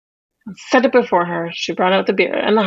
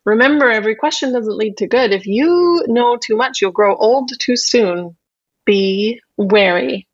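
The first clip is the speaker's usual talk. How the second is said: put-on old witch warning. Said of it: "said the old witch".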